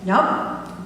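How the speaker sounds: slow, calm, patient reassurance; gentle slow correction. Retold or imitated. Minister gently corrects her shocked friend, slow and calm. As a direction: spell it out gently, word by word.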